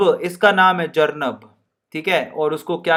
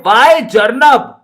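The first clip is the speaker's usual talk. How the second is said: mock scolding in a Rajasthani lilt; Rajasthani teacher; 3 semitones higher, 3 dB louder than usual. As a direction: play the teacher telling Jarnab off in Rajasthani style. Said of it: "madam कहती है".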